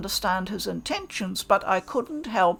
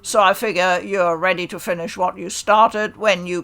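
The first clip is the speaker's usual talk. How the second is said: menacing challenge; 2 semitones lower, 5 dB louder than usual. Acted. Hichikata challenges stranger to duel.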